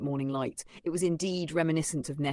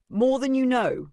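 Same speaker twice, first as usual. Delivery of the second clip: urgent woman's voice; 9 semitones higher, 8 dB louder than usual. Acted. Distressed woman replies urgently.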